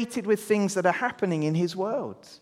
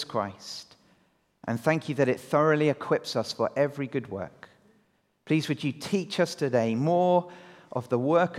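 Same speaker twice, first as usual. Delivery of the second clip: measured prayer, lower toward the close; 3 semitones lower than usual. Real, not acted. Leader praying with the congregation before teaching, prayerful. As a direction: lead the room gently in prayer.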